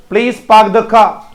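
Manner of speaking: पार्क as "paak" and car as "khaa", both R's silent; phonetic English pronunciation. Shown as a demonstration. Teacher shows pupils the phonetic sentence, silent R's. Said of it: "ऐसा देखना है".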